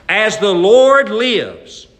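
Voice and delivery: slow, loud, trembling oath; shaking anger. Acted. David swearing an oath against the rich man, slow and furious. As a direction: let the fury shake the words. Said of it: "Can't you imagine David's voice shaking?".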